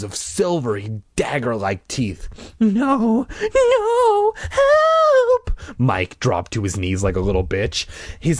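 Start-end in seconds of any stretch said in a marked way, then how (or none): 2.6-5.6 high, loud scream for help; panicked scream. Acted. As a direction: scream in terror.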